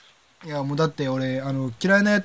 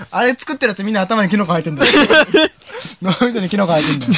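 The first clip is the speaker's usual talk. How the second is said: heated rant; 4 semitones higher, 4 dB louder than usual. Pretend. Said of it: "ヒートアップする".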